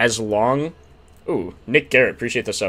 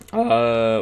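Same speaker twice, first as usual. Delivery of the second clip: voice crack. Real, not acted. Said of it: "whoa, voice crack".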